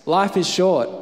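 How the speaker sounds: emphatic refrain. Real, not acted. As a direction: hammer the refrain to the crowd. Preacher repeats refrain, building then fading.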